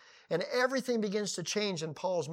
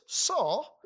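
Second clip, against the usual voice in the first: voice from heaven; 5 semitones higher than usual. Acted. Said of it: "And the voice says".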